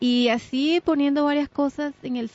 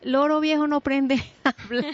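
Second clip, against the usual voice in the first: laughing self-quote; 3 semitones higher than usual. Retold or imitated. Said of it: "Me acuerdo que yo decía".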